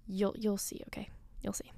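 soft secretive whisper; whispered tease. Real, not acted. Promising listeners the payoff, whispered. Teasing suspense.

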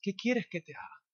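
softly voiced Jesus; gentle, quiet question. Jesus looking at the blind man, asking softly. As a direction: drop to a hushed, tender ask.

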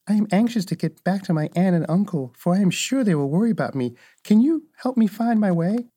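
a hint of a worried child; anxious little girl. Dorothy asking the Munchkins for help, lightly voiced anxious girl.

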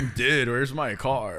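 slow low stoner voice; stoner dude. Pretend. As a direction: drag it out, dazed. Movie quote bit.

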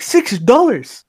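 hammed-up outrage, stretching each word; mock angry repeat. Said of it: "he was just getting mad at me".

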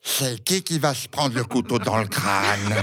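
playful rising taunt, laughing; laughing tease. Acted. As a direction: toy with them, laughing. Knife thrower teasing laughing audience.

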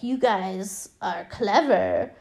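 slow, lightly voiced doll; mock sinister doll, slowly; creepy doll. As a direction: draw it out as a talking doll. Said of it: "the doll's like".

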